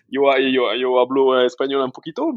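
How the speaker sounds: « yo hablo espagnol un poquito » dit avec un accent espagnol timide et amusé; espagnol hésitant. Shown as a demonstration. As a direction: montre ton petit espagnol en riant à moitié. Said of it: "apprendre l'espagnol, c'est sur ma bucket list". (petit espagnol hésitant et amusé)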